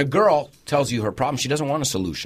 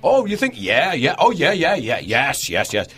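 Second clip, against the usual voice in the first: placating agreement; slower than usual. Retold or imitated. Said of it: "to yes someone to death".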